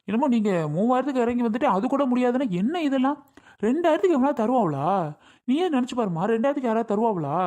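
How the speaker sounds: mock the offer as absurd; indignant scoff. Landlord scoffs at low offer.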